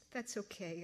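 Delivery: gently. Acted. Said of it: "I said gently".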